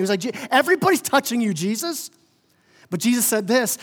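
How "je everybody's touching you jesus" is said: high, quick, rising disbelief; mock incredulity. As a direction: question Jesus as if it's obvious. Peter's reply acted as incredulous.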